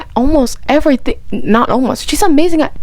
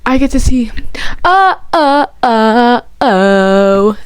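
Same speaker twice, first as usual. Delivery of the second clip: breathless excitement; 3 semitones higher, much slower than usual. Real, not acted. Overwhelmed fangirling.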